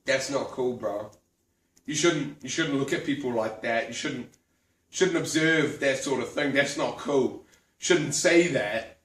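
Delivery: a hint of a chiding bro; lightly voiced disapproving friend. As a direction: friend gently telling him off. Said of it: "And he said".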